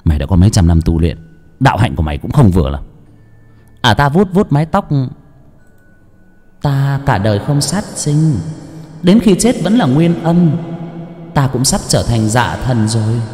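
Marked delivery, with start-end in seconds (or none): 0.0-2.8 low, fast taunting voice; stern old master. Acted. 6.6-13.2 a lightly voiced haughty ghost; ghostly woman. Female ghost boasts.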